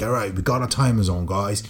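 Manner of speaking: a light English accent, playing a heist crew leader; mock English accent, rallying the crew; English robber accent. Husband rallying his family in English robber accent. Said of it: "I'm an English robber".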